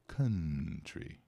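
country said as KAH-tree; country with an open first vowel, falling; teacher drilling country for students; model pronunciation. Shown as a demonstration. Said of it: "Repitam comigo".

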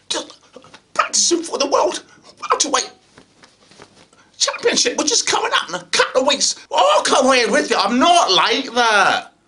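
boisterous Scottish actor at an audition. Acted. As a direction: play it big and loud in a Scottish accent. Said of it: "went up to Scotland".

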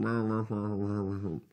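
mock muttering. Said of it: "You're, you're muttering".

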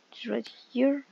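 unvoiced whisper, rising at end. Real, not acted. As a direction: breathe it out, hushed. Hushed aside while hiding.

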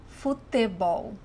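futebol with a hard T in te; regional pronunciation. Shown as a demonstration. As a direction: say futebol as "foo-teh-BOW". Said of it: "In some parts of Brazil".

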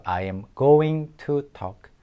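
I am going to talk, drawn out word by word; very slow I am going to talk; slow model reading. Shown as a demonstration. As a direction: spell it out slowly for students. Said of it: "teacher models sentence".

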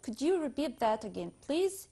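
very slow, word by word English request; very slow demo. Shown as a demonstration. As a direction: stretch each word for the class. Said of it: "ممكن أقول". (ببطء شديد كلمة كلمة)

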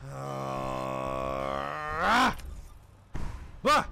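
long low groan breaking into a yelp; wordless outburst. Real, not acted. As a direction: drone low, then burst out. Startled noises during tense gameplay.

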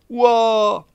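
high, loud whoop. Acted. Chorus answering the toast, high loud whoop. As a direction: cheer back as one.

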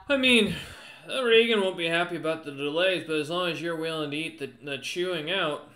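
grudging commander agreeing to the favour; Houghton's voice. Acted. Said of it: "kinda looks at you and nods and goes".

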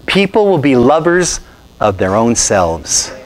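slow, measured scripture reading; solemn reading of the verse. Shown as a demonstration. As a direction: read the verse deliberately, slowly. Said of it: "I'm quoting scripture".

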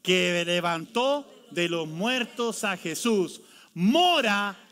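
levantó drawn out very slowly; slow emphatic reading. Shown as a demonstration. Pastor leading the church through the verse slowly. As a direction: spell out each word slowly. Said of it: "una vez más".

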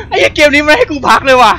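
high, loud half-crying complaint; panicked whine. Real, not acted. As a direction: wail at the game in fear. Cursing the relentless game. (โวยวายเสียงสูงเหมือนจะร้องไห้)

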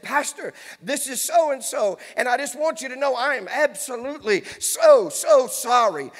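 mildly worked-up apology, drawing out the last words; touch of frantic apology, stretched at the end; retold hysterical lady. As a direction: lightly imitate a hysterical woman apologizing. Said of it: "one lady was hysterical".

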